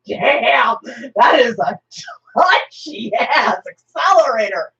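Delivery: a loud startled yell from Gambit. Retold or imitated. Gambit climbing out of the Batmobile, yelling. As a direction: shout it, rattled by the car. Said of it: "and he goes".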